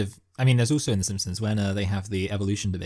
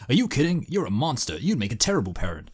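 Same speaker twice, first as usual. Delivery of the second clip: judge from cartoon; 2 semitones higher than usual. Co-host quotes the judge rebuking Peter, indignant put-on voice. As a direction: deliver a scolding ruling as a cartoon judge. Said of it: "and the judge is like".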